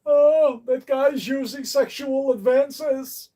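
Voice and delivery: shrill up an imitation of the easily offended; mock offended complainer. Mocking the viewers who report him, in a high outraged voice. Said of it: "to contact YouTube and to".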